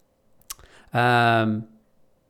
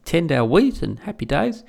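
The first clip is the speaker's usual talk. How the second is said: mock delight; 3 semitones higher, 3 dB louder than usual. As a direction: gush like a carefree farmer. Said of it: "And they're like".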